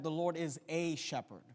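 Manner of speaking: "a" set apart as a full "ay"; stress on A. Shown as a demonstration. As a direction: lean on "a", said like the letter A. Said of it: "could have made a doctrinal statement".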